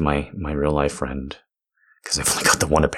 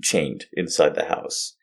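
mock complaining; 4 semitones higher than usual. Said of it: "I was complaining to a friend, like".

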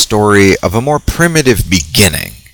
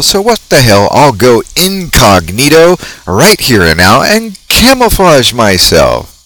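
put-on wholesome 1950s kid; 4 semitones higher than usual. Mantis voiced talking to herself.

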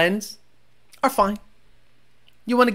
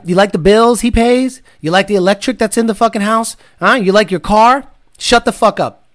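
louder, bossy mock husband lecture; mock macho husband; 4 dB louder than usual. Answering a viewer whose wife hates cussing, loud mock-bossy lecture. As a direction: bark it at the wife like a hammed-up chauvinist. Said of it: "my wife says you cuss too much".

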